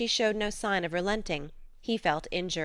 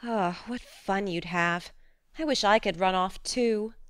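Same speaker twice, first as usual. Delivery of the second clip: dream aloud of running away; wistful longing. Acted. Jo longs to join escapade.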